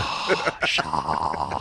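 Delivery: long, heavy breath into the mic. Pretend. Guest told to breathe into the mic, heavy breath. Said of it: "Breathe into the mic".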